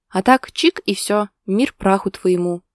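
slow, deadpan calm. A narrator's reading. Wife teasing husband deadpan, calm and slow. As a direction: spell out the verdict coolly. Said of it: "спокойно ответила она".

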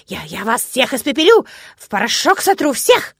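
squeaky high frightened threat; helium voice. A narrator's reading. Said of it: "тоненьким писклявым голоском". (писклявая пустая угроза)

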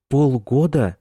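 horrified disbelief, loud and high; shocked. A narrator's reading. Mother hearing son dates a boy, shocked.

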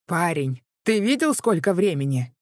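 furious neighbour yelling up; angry shout. A narrator's reading. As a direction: shout it up from below. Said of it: "возмущённо прокричал".

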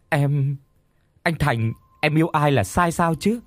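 high, hurt, close to tears; tearful pleading. Acted. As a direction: beg him through tears. Ngọc pleading, crying.

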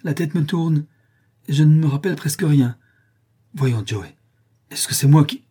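frightened plea. Acted. Potter distraught, pleading.

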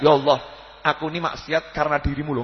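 low-pitched mock insolence; insolent prayer. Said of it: "jangan kemudian kurang ajar".

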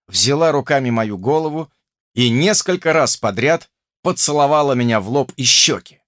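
ordinary delivery

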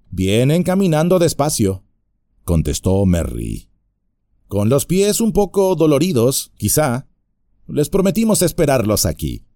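mock innocent hobbit reply; a hint of sly hobbit; cheeky hobbit. Merry answers the bandit.

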